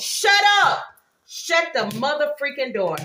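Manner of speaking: sudden, shrill, loud screaming outburst. Reacting while talking to her viewers, screaming. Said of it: "Sorry for screaming".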